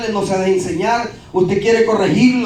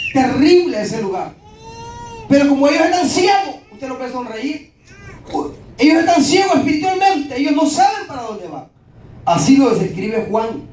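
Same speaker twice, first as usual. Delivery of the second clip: preaching; 2 semitones higher than usual. Acted. Preacher warning the church about the blind sinners, fervent. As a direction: preach it to the congregation with full force.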